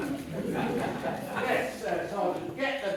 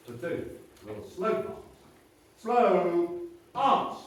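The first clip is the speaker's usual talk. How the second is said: drawn out parade commands; slower than usual. Acted. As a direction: stretch each drill command long. Drill commands.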